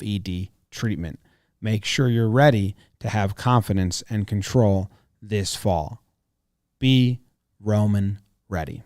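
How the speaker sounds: upbeat sponsor read. Acted. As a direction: sell it like a radio ad. Host reads sponsor ad.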